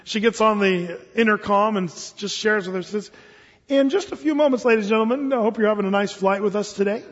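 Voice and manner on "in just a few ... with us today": bright, sweet announcement pitched up; cheerful attendant announcement. Acted. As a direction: reassure the passengers with a big smile. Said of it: "puts a smile on her face, very calm".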